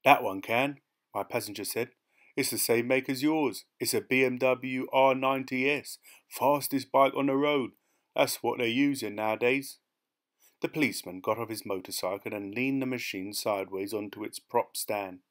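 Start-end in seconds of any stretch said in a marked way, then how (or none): 0.0-9.8 lightly voiced chatty passenger, a bit higher and louder; rat-faced passenger. Passenger telling the driver about police motorcycles, lightly voiced, chatty. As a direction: lightly put on an eager hitchhiker's voice.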